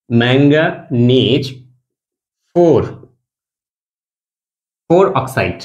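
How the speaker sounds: ম্যাঙ্গানিজ drawn out very slowly, syllable by syllable; teacher stretching out ম্যাঙ্গানিজ for the class; slow, spelled-out name. Shown as a demonstration. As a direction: say ম্যাঙ্গানিজ slowly so students can copy it, ending on a rise. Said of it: "যে ম্যাঙ্গানিজ".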